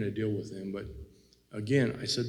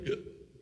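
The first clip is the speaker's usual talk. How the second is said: sharp breathy hiccup; a sudden hiccup catch; hiccup gasp; 5 dB quieter than usual. Real, not acted. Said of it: "Got the hiccups".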